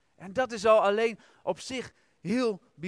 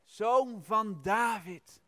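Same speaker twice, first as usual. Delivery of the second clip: crying out; 3 semitones higher, 3 dB louder, much slower than usual. Retold or imitated. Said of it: "Zij roept en ze schreeuwt".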